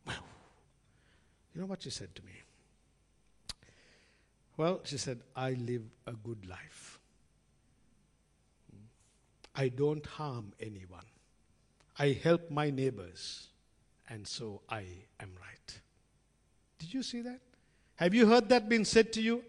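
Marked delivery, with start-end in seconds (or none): 5.3-15.8 slow, soft and lower, fading to a whisper; quiet self-assured lady. Retold or imitated. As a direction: let it sink, calm and certain of herself. Neighbour Jane's reply voiced.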